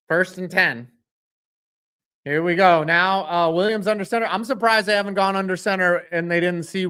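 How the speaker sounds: steady announcer calling the drive; play-by-play call. Acted. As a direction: narrate each snap like a broadcaster.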